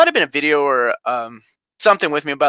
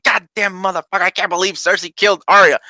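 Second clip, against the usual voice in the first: mildly raised mock anger; pissed-off fan; 3 semitones higher than usual. Viewer on Monday after Arya dies, mock pissed-off. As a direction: act out a viewer's disbelieving grumble, slightly higher. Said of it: "that feeling of being pissed off".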